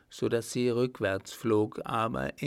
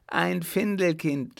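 Findelkind cried out higher in surprise; startled cry; 6 semitones higher, 3 dB louder than usual. Acted. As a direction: echo his word as a shocked outcry. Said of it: "schrie sie förmlich auf".

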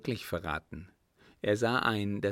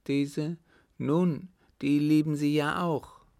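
higher, louder accusing countess; acted outraged aunt, voice raised; indignant retort; 7 semitones higher, 6 dB louder than usual. A narrator's reading. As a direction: throw it back at him angrily. Angry countess confronts the lieutenant.

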